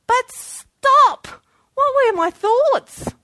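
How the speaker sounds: sudden loud high cry, then slow question; preaching shout. Real, not acted. Preacher halting the congregation, loud and high. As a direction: stop them cold with a shout.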